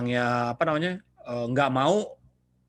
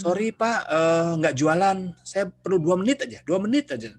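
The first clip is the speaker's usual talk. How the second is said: higher, pleading street-corner pitch; pushy street fundraiser; 5 semitones higher, 3 dB louder than usual. Retold or imitated. Street fundraiser stopping a passerby, higher and pleading. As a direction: wheedle for two minutes, pitched higher. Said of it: "itu saya paling males itu".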